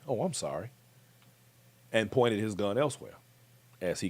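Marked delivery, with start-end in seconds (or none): 0.1-0.7 softer, unbothered retold apology; very calm apology. Shooter excuses himself to the man on the floor, very calmly. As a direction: say sorry calmly, with no urgency. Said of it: "And I mean very calmly".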